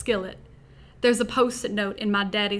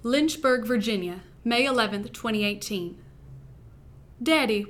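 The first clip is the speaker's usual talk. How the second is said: put-on Southern accent. Podcast host reads her wedding-eve story to listeners in a Southern accent. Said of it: "I will be reading my first-person story in a Southern accent".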